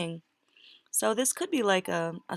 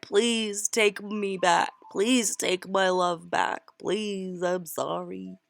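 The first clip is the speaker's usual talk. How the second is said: pleading apology; slower than usual. Retold or imitated. Voicing the person begging forgiveness.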